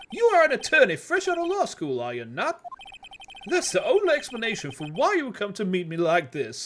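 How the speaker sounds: high, comical Texan tycoon; pompous rich Southern businessman; southern oil tycoon voice. Acted. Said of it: "southern U S, um, oil tycoon voice".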